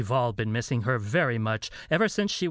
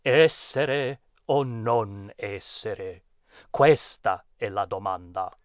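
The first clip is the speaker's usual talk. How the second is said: slow theatrical Shakespeare recital; dramatic recitation; 2 semitones lower, slower than usual. Shown as a demonstration. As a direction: declaim it like Hamlet on stage.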